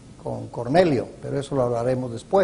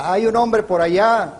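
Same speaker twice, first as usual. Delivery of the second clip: vague mock instruction; 5 semitones higher, 3 dB louder than usual. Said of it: "No le dijo el Señor a Ananías".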